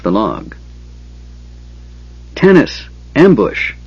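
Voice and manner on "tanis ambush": high warning cry, one word at a time; raised-pitch shout of alarm; calling out. A narrator's reading. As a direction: call for help across a distance. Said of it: "the kender's voice floated to them".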